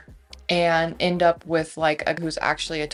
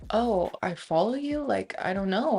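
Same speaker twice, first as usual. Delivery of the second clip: higher-pitched, unsure imagined reply; mild puzzled surprise; 4 semitones higher, 3 dB quieter than usual. Retold or imitated. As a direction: play innocently caught off guard. Imagines his honest, surprised reply.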